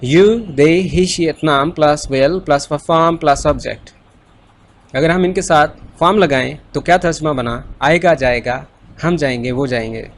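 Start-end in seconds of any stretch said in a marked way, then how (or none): 0.0-3.9 very slow, every word spaced out; slow recitation. Shown as a demonstration. Teacher slowly recites the formula for the class to repeat. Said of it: "बोलिए".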